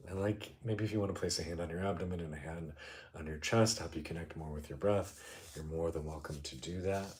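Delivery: calm meditation guide, with long pauses; guided meditation. Real, not acted. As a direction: ease listeners into noticing, unhurried.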